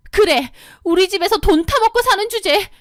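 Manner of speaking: high, contemptuous jab; sneering sister-in-law. Acted. Sister-in-law sneering at the wife, high and contemptuous. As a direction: look down on her.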